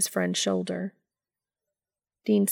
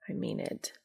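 hushed, barely voiced; quiet, earnest undertone; quietly; 9 dB quieter than usual. A narrator's reading. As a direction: say it softly and sincerely. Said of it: "Cass said quietly".

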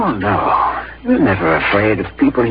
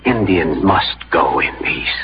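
urgent whisper; 7 semitones lower than usual. Acted. Friend whispers a warning.

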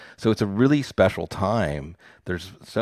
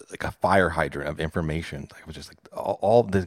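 usual speaking voice

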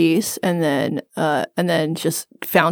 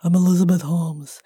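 Elizabeth Holmes. Acted. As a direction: lightly put on a dropped, guttural voice. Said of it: "can you do the voice".

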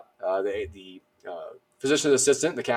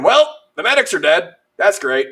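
retold exasperated thought; 7 semitones higher, 8 dB louder than usual. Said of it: "And I'm thinking".

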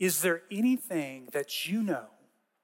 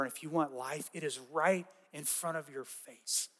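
soft, hushed and gentle, pleading quietly; tender; 4 dB quieter than usual. Retold or imitated. Jesus gently telling the leadership he is right here. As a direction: speak softly as if standing right beside them. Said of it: "this incredibly tender moment".

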